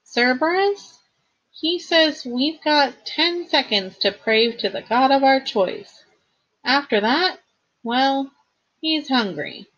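high-pitched anxious friend relaying bad news; worried companion. Friend translating the growling dog's threat, high worried voice.

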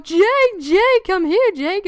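imitated high, loud taunting scream. Haunted house workers all screaming his name at him, taunting scream. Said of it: "screaming out".

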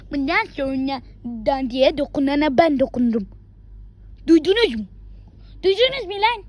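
threatening yell. Acted. Boy acting a tough guy warning everyone, shouting. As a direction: snarl the warning, then shout it out. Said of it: "Evet, mesela böyle".

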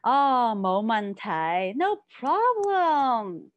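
bright, drawn-out no problem; an eager, reassuring no problem; cheerful reassurance. Shown as a demonstration. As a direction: sound happy to help. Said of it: "this is a very nice way to say".

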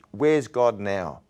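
slow, pointed mock challenge; devil's slow taunt. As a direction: draw the question out as the taunting devil. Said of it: "it's like the devil said".

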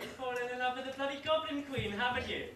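accusing. Acted. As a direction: catch him out, scandalised. Boss accuses companion of love.

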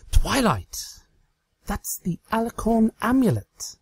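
high, mock-shocked pony voice; Trixie, mock alarmed. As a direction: ham up the discovery. Trixie playing pretend.

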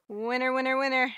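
building, sing-song winner call; booming prize announcer. Real, not acted. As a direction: announce the win like a game show. Celebrating a lottery ticket win.

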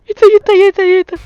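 high, urgent repeated alert; panicked warning. Real, not acted. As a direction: raise the pitch in rising alarm. Spots the monster, warns partner. (다급하고 높은 경고)

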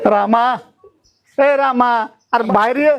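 loud call to come outside. Acted. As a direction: call your friend out of the house. Calling friend out of house.

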